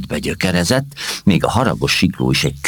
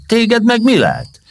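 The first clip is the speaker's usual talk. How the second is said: high, slow startled question; be thrown by her sudden outburst; taken aback; 4 dB louder than usual. Acted. Kázmér startled by Mimó's shouting, a high slow puzzled question. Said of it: "hökkent meg Kázmér".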